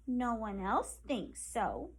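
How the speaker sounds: slow, mildly sad little voice; a touch of sorrow, said slowly; understated sad porcupine; sadly. Acted. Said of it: "Penny said sadly".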